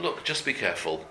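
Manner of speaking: gently hushed advice; quiet word of warning. Acted. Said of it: "you can speak to him, uh, quietly".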